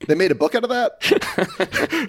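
slow, laughing through the quoted line; retold disbelief, laughing it out slowly; laughing quote. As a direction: quote him while cracking up. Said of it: "And he goes".

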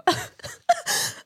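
high, airy pretend sobs; hammed-up high sobbing; mock crying. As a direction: act out crying at the mirror. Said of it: "look in the mirror and cry".

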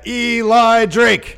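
drawn-out, loud, high ring-announcer shout; announcer call. Shown as a demonstration. Co-host demands the name be done right, big announcer call. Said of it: "No, do it right".

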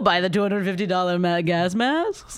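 half-hearted Jewish voice. Pretend. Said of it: "That was trying to do a Jewish voice".

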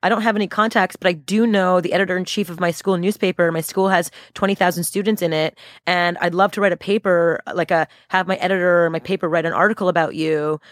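lightly voiced student introducing herself; hint of a hopeful student asking; eager student. Acting a student's polite pitch.

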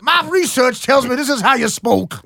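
hammed-up South African accent. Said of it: "his South African accent".

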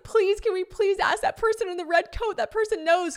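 put-on high, pleading little-kid voice; pleading whine. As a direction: beg desperately. Retold begging to ask staff.

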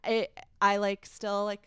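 fighting to stay composed; holding back tears. Real, not acted. Telling hosts about the hard day, near tears. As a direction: voice pushed, close to tears. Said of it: "I'm not gonna cry right now".

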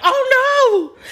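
"Oh, no" wailed very high and loud with a laugh; half-laughing wail of grief; mock wail. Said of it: "Like, wailed, like, let out a wail".

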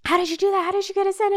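mock-amazed friend asking how. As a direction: friend stunned at her trick.

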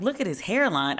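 mocking repeat of a complaint; acted baffled echo; incredulous echo. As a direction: throw the words back in disbelief. She echoes friend in disbelief.

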